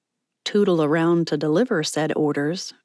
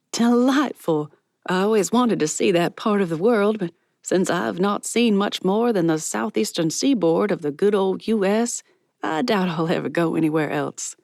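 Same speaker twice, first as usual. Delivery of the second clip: Miss Patty, delighted; 2 semitones higher than usual. Acted. Miss Patty charmed by the girl, delighted. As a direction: savor the word. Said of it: "Miss Patty laughed".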